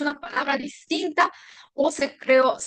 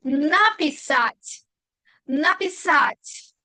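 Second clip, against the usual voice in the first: very slow написать, marked A; stress on the A; much slower than usual. Shown as a demonstration. Teacher modelling the prefixed verb, slow написать with stressed A. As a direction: stretch написать out, leaning on the A. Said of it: "tilde en la A".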